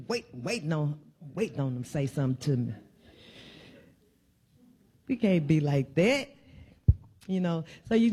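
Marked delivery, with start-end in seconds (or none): 0.1-2.7 softer, fast muttered aside; quick aside. Real, not acted. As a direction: drop low and rattle it off. Mocking people waiting to pounce.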